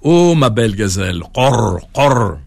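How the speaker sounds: lovesick toad wailing, croaks at the end; croaking toad lament. Acted. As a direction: moan for his lost wife, then croak. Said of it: "il ne cessait de sangloter".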